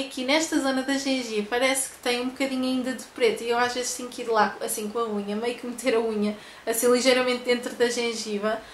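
lip pulled down by finger; talking around fingertip; finger in mouth. Real, not acted. Seen 0: Fingertip on teeth and gum, lip pulled down, while speaking.

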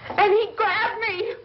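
rising tearful retelling, voice climbing; crying as she tells it; distraught crying. Acted. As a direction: relive the attack through rising tears. Barbara recounting the attack, distraught.

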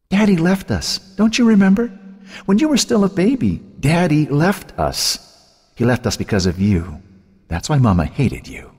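spiteful tormentor driving the blame home; venomous sister. A narrator's reading. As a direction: taunt her in a high, cruel sing-song. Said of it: "Her sister's voice turned venomous".

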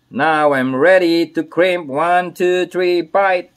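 loud, high announcer-like count; pumped-up barker's count; showy countdown. Pretend. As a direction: call out each number with force. Showy countdown before crimping.

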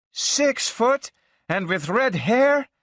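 put-on high, slow, shocked girl's voice; mock scream. Girlfriend outraged at the tall redhead, high and slow. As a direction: act out a jealous outburst, high and drawn out. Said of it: "she screamed".

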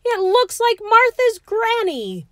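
loud, high-pitched indignant roar; hammed-up outraged bellow. A narrator's reading. George rejects the artist's portrait of him, roaring. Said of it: "he roared".

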